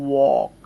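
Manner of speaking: ওয়াক as "wawk", open rounded AW; correct pronunciation. Shown as a demonstration. Teacher shows learners the dictionary sound, correct pronunciation. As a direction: say ওয়াক on its own with an AW vowel. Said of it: "এই যে এটা হচ্ছে সঠিক উচ্চারণ".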